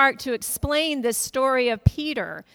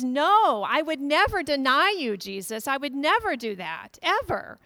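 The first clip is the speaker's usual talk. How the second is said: exclaiming Peter; 3 semitones higher than usual. Retold or imitated. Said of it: "Peter exclaims".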